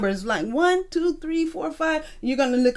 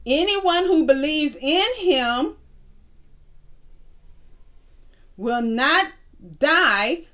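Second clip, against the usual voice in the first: slow dictation; 2 semitones higher, slower than usual. Shown as a demonstration. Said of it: "I'm gonna read it slow".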